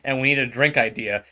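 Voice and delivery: bursting in, loud and upbeat; loud boss voice. Acted. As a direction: barge in loudly with the news. Boss bursts in pitching idea.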